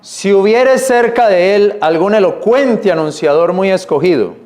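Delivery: measured reading of the verse; scripture reading. Acted. Preacher reading scripture to his church, measured. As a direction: read the verse to the congregation.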